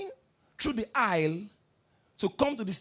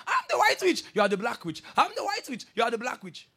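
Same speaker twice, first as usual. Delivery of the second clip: mock shouting witch; 3 semitones higher than usual. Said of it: "she kept shouting".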